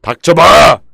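갑자기 크게 버럭 소리치기; 말을 끊듯 높고 세게 외치기; 버럭 화내기. Real, not acted. Snaps at donation voice interrupting. (버럭 호통)

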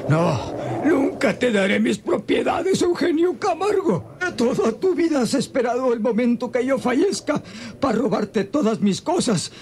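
feverish shout of defiance; delirious defiance. Acted. Dying father shouting at Eugenio Camargo in delirium, angry. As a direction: rage at an enemy who isn't there. Delirious man defying his enemy.

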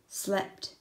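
whispered, drowsy slept; sleepy whisper. A narrator's reading. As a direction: breathe it out like dozing off. Sleepy wombat diary entry.

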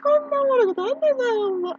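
can barely get it out for laughing; laughing to tears. Real, not acted. Friend cracking up at the old man, laughing through the words. Helpless laughter at funny story.

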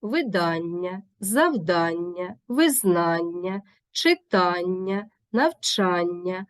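slow list, each word stressed on -ання; teacher reads видання, завдання, читання with the stress on ання; stress on the suffix. Shown as a demonstration. Teacher showing students stress on the suffix, slow and deliberate. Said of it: "частіше наголошений суфікс".

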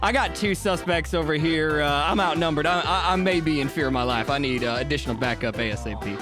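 low, measured radio report; police radio call. Acted. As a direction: call for backup over the radio.

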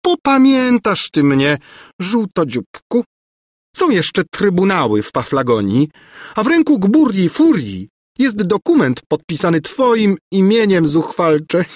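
high, angry screech; screeching threat. A narrator's reading. Governess threatening the runaway prince, screeching. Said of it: "skrzeczała za nim Gburja Furia".

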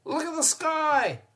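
high, loud cackling shriek; cackling goat woman. A narrator's reading. The goat woman cackles at the mayor, high and loud. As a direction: cackle it out at him. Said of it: "she cackled at the mayor".

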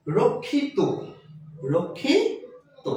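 রক্ষিত ending in to, slowly broken up second time; final O ending. Shown as a demonstration. Teacher showing the suffix rule to students, final o. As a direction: say রক্ষিত as rokkhito, with a clear final o. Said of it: "ওকার উচ্চারিত হবে".

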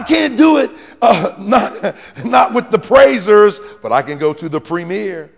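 a hint of Samson's excuses, rising then dropping; voicing Samson. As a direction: lightly play Samson bargaining. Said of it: "here's what Samson was saying".

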